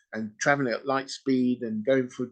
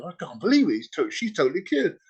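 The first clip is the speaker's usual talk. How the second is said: higher, mildly mock amazement; astonished doctors; 5 semitones higher than usual. Doctors reading a patient's results, mock astonished. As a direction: imitate doctors in light disbelief, pitch lifted. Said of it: "the doctors are all looking at her readings and everything, going".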